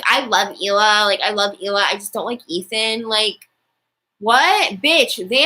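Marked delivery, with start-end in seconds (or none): 0.0-3.1 mock Trisha. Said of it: "Trisha keeps saying".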